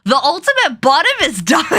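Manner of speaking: real laughter breaking through; words dissolve into a high laugh. Real, not acted. Streamer cracking up at the hero's death, laughing.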